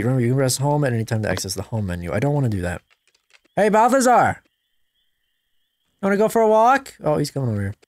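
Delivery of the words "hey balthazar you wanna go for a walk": slow, higher coaxing question; baby talk offering a walk; dog baby talk. Acted. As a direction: coax the puppy sweetly. Asking dog about walk.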